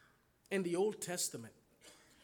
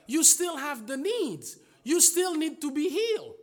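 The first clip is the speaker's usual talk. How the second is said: louder, pressing each word; building emphasis; 6 semitones higher, 6 dB louder than usual. Real, not acted. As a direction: drive the point home, building. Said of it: "preacher building emphasis".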